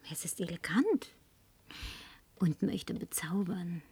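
langsam, tonlos gehaucht; verführerisches Flüstern. Acted. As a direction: bezirzen mit jedem Wort. Verführt den Barmann. (flüstert dem Barmann langsam zu)

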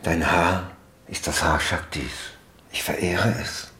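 soft, tender ritual words with long pauses; zärtliche Verehrung. Shown as a demonstration. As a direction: speak it as a quiet act of worship. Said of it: "zärtlich sie halten eine Weile und dazu Sätze sagen". (zärtlich und andächtig)

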